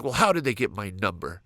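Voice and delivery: indignant inner rant, building; fake-offended grumbling about the phone number; mock aggressive rant. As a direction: huff and puff at the nerve of them. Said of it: "aggressive thoughts".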